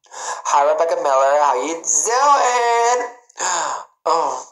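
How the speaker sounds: buzzing phone noise in a drawn-out greeting; vibrating phone impression. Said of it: "my impersonation of a vibrating phone".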